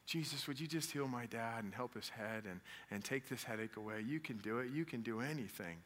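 soft child's prayer, lightly voiced; sweet little prayer. Small son praying for his dad's headache, gently sweet. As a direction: pray softly and simply, imitating a small son. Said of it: "this sweet little prayer".

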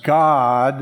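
"God" drawn out with extra weight; stress on God. Shown as a demonstration. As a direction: lean hard on the word "God". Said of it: "usually emphatic or for emphasis".

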